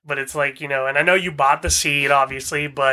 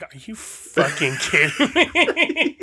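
laughing quote; 5 semitones higher, much slower than usual. Retold or imitated. Retelling buddy's outraged remark.

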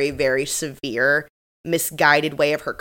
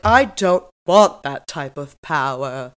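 lofty refusal; 3 semitones lower, slower than usual. Retold or imitated. Acted retort quoted from Jennifer.

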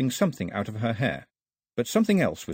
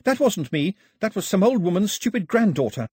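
higher, louder indignant outburst; wanting to shout; 9 semitones higher, 5 dB louder than usual. A narrator's reading. Embarrassed Daphne protests to the voice, indignant. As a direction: protest hotly, almost shouting. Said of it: "she wanted to shout".

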